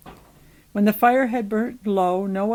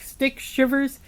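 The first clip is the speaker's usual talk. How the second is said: high instructions growing louder to a shout; pressing, raised-voice command; urgent orders; 5 semitones higher, 9 dB louder than usual. A narrator's reading. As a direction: build up to a loud final cry. Head gives urgent cooking orders.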